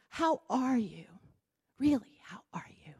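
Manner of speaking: hushed, intimate check-in. Shown as a demonstration. Asking how someone truly is, sincere and hushed. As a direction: drop into a breathy near-whisper on "really". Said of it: "We're going deeper here".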